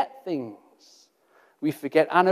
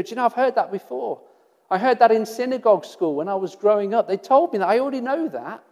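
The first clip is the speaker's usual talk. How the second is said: fast, louder, lightly voiced bored disciple; mock know-it-all; 3 semitones higher, 5 dB louder, faster than usual. Preacher imagines a disciple shrugging at Jesus, fast mock boredom. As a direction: rattle it off like an old lesson. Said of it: "they didn't hear Jesus and go".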